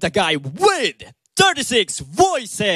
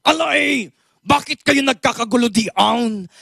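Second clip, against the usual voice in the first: iconic character impression; 4 semitones higher than usual. Impressionist scolding a rowdy crowd in character. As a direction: demand why they're fussing. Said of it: "iconic person pa".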